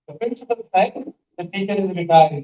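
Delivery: group "The principal said", pause, then the rest; "said" closes the first group; one pause after said. Shown as a demonstration. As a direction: break after "said", then "the teacher is retiring" together. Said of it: "Because there is only one pause".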